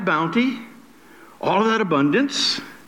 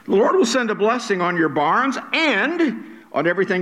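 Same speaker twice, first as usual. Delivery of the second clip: "and" lifted and held before a break; stress on "and"; 3 semitones higher than usual. Shown as a demonstration. Preacher reads the promise to congregation, stressing "and". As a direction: hang on "and" before continuing. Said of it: "I'm gonna be emphasizing the word "and".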